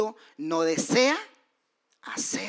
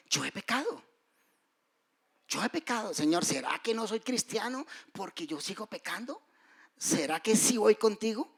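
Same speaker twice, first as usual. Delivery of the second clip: higher, pleading retold prayer; anguished plea; 5 semitones higher than usual. Preacher retelling his deathbed prayer, anguished pleading. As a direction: beg the Lord with worry, lightly voiced. Dying man pleading with God.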